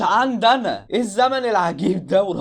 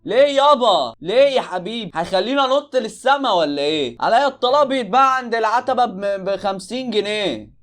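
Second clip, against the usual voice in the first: higher, louder indignant tirade; outraged rant; 5 semitones higher, 4 dB louder than usual. Real, not acted. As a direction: rant at the ridiculous price. Ranting about the overpriced product.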